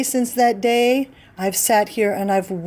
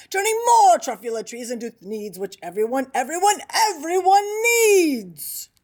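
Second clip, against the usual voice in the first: yelling at the Lorax; 3 semitones higher than usual. Retold or imitated. Onceler yells back at the Lorax, defiant mock rant. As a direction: stretch out the last "everyone needs" like a taunt. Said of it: "I yelled at the Lorax".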